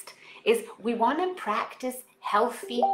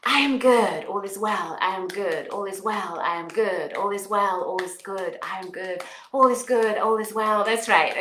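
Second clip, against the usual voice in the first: repeated affirmations; 4 dB louder than usual. Shown as a demonstration. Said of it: "say it loud and say it with conviction".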